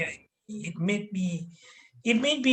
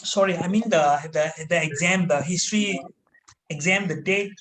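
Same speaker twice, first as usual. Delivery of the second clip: acted nervous stumbling, in fits and starts; nervous mumbling. Scared pupil asks master for exam date, fumbling. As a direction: stammer and grope for the words. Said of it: "I was mumbling something".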